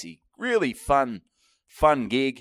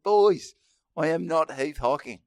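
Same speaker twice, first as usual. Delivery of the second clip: loud firm denial, stressing not; exasperated denial; 7 semitones higher, 7 dB louder than usual. Retold or imitated. Speaker denying to the fans, loud and firm. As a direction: push back hard at the pushy boys. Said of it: "I said".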